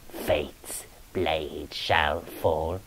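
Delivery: slow whispered doom; eerie whispered echo. A narrator's reading. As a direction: breathe the doom out, very slowly. Ghost's doom prophecy.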